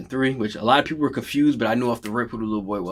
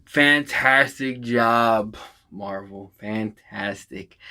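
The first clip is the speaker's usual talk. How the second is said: slow, choked-up praise; moved praise; much slower than usual. Real, not acted. Fan thanking Marvel, slow and moved. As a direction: drag it out, overcome. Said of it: "I gotta take my glasses off".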